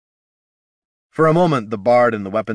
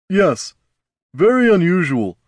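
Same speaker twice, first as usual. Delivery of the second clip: high, hollow, vacant voice; distant voice; 10 semitones higher, 6 dB louder than usual. Acted. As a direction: say it as if far away, dazed. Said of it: "spoke with a distant voice".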